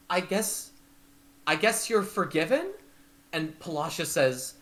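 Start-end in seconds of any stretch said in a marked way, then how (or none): 0.1-2.7 raised, unsure question; hesitate, let it lift; hesitant forgiveness. Acted. Candlefoot forgiving the Kenku, uncertain and raised.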